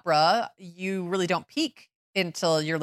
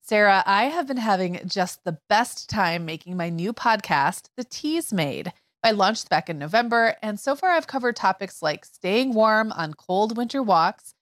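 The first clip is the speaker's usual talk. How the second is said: scripted chatty plug; podcast promo read; 2 semitones higher than usual. Acted. Host telling co-host about new podcast, promo read. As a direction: plug your own show to a co-host.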